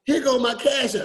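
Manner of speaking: lightly voiced friend's quip; breezy mock offer; a hint of Miss Dyer's joking tone; imitating Miss Dyer. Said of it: "That's how she talked".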